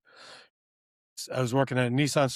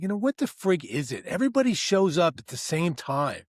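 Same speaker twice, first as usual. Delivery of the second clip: higher-pitched retold gripe; mildly worked-up venting; exasperated; 4 semitones higher than usual. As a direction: complain in baffled frustration. Venting about morning rush.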